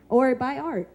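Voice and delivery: a high, laughing plug for art. Real, not acted. Host urging the audience to buy art, laughing. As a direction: laugh it off as a cheeky pitch.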